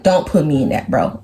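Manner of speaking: low-pitched, dismissive mimicry; imitated guy refusing. Acts out Paxton refusing involvement.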